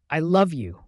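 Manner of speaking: yelling through a mouthful; mouth full. Acted. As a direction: shout it with a mouthful. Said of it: "I yelled at him with a mouthful of pretzels".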